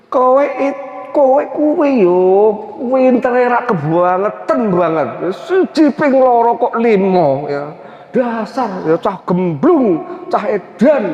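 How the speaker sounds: drawn-out, singsong Javanese scolding; mock-gentle insult. Preacher showing polite-sounding abuse, slow and mock-gentle. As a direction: insult someone in slow, stretched words. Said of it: "nadanya nada rendah, lembut, tapi isinya lekit".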